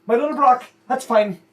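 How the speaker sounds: high mock-sad mom voice; sulky mother. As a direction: pout about your little boy. Mother sulks about her son.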